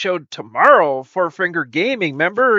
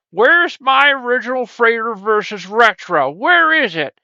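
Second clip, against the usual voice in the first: mock viewer whine; 5 semitones higher than usual. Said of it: "I know what you're thinking right now".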